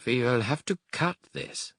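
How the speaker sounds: a hint of a German doctor, hesitating; hesitant German doctor. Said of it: "he said hesitantly".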